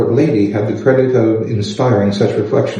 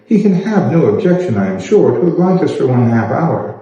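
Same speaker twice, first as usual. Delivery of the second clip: lightly voiced fussy old gentleman, pitched higher; a hint of a pompous courtier; Sir William; 3 semitones higher than usual. Sir William persuades Elizabeth.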